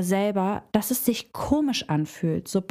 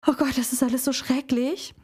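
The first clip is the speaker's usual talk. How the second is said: higher, mildly whiny lament; victim voice; 4 semitones higher than usual. Shown as a demonstration. Coach showing the victim role to the viewer, higher and whiny. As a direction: lift the voice into a light self-pitying moan. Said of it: "Du hörst es schon an meiner Stimme".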